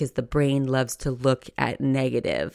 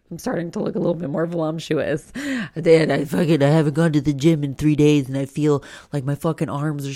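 self-critical spiral; 4 dB louder than usual. Retold or imitated. Inner voice spiralling.

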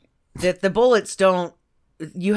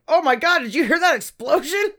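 mock startled cats; 10 semitones higher than usual. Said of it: "they're like".

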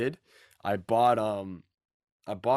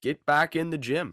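rallying gym coach call; peppy workout coach; 5 semitones higher than usual. Pretend. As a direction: fire them up to train. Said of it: "I know I sound like a personal trainer".

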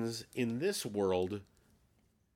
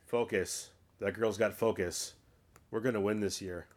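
lightly voiced coach, understated delivery; volleyball coach impression; 3 semitones lower than usual. Host imitating the movie's volleyball coach, lightly voiced. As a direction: imitate a coach's line reading, just slightly low. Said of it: "as authentically as he did".

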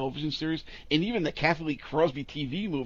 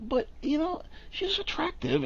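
high-pitched aside. Real, not acted. Defending her looks, voice jumps.

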